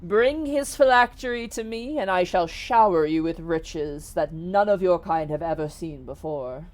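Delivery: stately genie offering a quest; a touch of grandiose promise; lightly voiced grand genie. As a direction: proclaim it in measured, weighty phrases.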